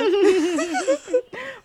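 high-pitched burst of laughter; laughing. Real, not acted. Amused at saying "my old life", high laugh. Laughing at her own phrase.

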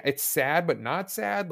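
sad but not sad. Real, not acted. Struggling to describe the music.

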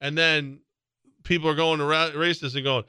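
ordinary talk

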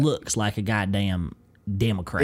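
put-on country Southern voice; Southern accent. Host on boiled peanuts, put-on Southern accent. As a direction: lean into a Southern good old boy. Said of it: "start leaning into the Southern accent".

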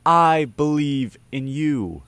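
root for them with a lightly voiced coach's cheer. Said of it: "He's like your coach".

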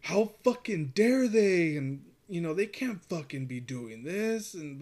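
imitating a buddy's outrage, pitch swooping up; mock indignant. Drunk buddy wants to fight four guys, mock indignant. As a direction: drag out a hammed-up protest.

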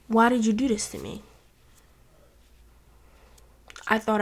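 quiet, hurt, close to tears; softly wounded, as if tears are coming; about to cry. Acted. Betrayed friend confronting someone they relied on, nearly crying. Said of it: "It sounds like I'm about to cry".

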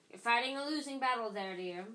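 a hint of a wheezy old mirror. A narrator's reading. Mirror warns Harry it's a losing battle, wheezy. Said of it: "mirror in a wheezy voice".

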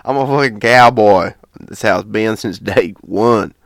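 proud cowboy country twang; country accent. Pretend. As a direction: boast in a played-up country accent. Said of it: "it's the country accent".

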